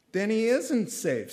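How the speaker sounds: put-on a girl growing nervous about the lion; frightened little question; worried Lucy. A narrator's reading. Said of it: "said Lucy".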